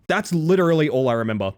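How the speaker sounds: usual speaking voice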